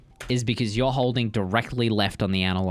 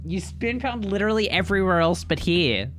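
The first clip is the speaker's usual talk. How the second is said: high incredulous outburst; disbelieving high scold; 8 semitones higher than usual. Real, not acted. Incredulous criticism.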